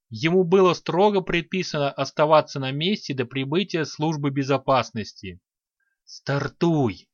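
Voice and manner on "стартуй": commanding order. A narrator's reading. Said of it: "приказал упавший на кресло".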